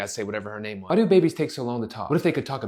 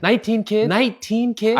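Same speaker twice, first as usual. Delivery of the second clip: high, loud incredulous repeat; can't believe the number; shocked disbelief; 8 semitones higher, 5 dB louder, slower than usual. Acted. Kid shocked at nineteen kids.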